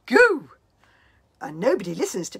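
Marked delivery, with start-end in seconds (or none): 0.1-0.5 put-on high, loud squeal of a baby. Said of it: "he can only say one word".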